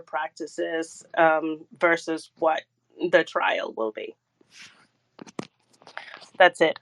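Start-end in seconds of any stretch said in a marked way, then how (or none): 6.4-6.8 winded, short of breath. Real, not acted. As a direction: talk while catching your breath. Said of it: "I'm getting winded".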